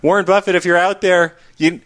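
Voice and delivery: put-on high, eager gee-whiz kid voice; wholesome 1950s kid. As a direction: plead like a wholesome fifties kid. Begging Buffett in kid voice.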